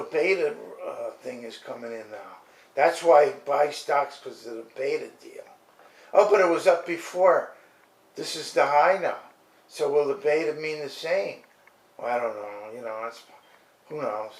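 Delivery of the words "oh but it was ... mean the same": mock eager investor. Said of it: "mock investor question".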